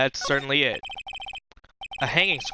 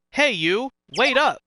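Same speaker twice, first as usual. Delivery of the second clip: calling after someone, pitch climbing high; hailing a stranger to wait up; 6 semitones higher, slower than usual. Acted. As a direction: shout to stop him from behind. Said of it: "You think he's yelling at us?".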